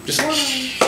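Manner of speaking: soft shh to quiet the room; shushing. Shown as a demonstration. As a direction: hush the class gently. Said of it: "Everybody say shh".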